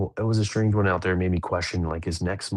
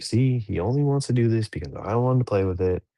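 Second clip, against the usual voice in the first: higher-pitched retold kid's complaint; imitated complaining child; 5 semitones higher, 4 dB louder than usual. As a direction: lightly mimic a daughter protesting about her sibling. Voices daughter's complaint about sibling.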